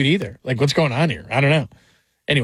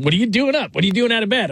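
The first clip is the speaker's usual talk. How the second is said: much higher, mock-stern parent voice; mock parent scolding; 9 semitones higher, faster than usual. Host mocking the late-night caller as a scolding parent. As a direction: play the nagging mom checking on a kid. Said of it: "Like, she's not my child".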